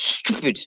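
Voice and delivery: soft "stupid" with a held hiss; extended S. Shown as a demonstration. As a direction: draw out the S in "stupid". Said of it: "you just extend the S".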